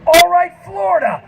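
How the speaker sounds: high rock-star crowd greeting; mock frontman shout. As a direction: holler it to an arena like a star. Retold rock frontman working the crowd.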